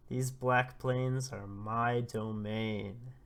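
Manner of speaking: slow, looming proclamation; menacing beast. Retold or imitated. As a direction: lord it over the intruders. Rhino beast announcing himself.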